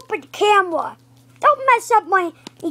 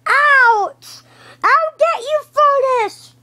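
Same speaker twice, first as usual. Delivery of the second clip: sputtering foiled villain; 5 semitones higher, slower than usual. Acted. Foiled villain vows revenge.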